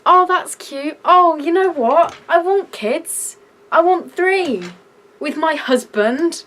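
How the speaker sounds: mock the change of heart she hoped for; mock gushing. Mocking what the coworker wanted her to think, gushing. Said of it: "make me think".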